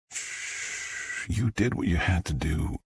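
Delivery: soft hush, then gentle reassurance; soothing. A narrator's reading. Jack holds Star as she cries, soothing. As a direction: comfort someone who is crying.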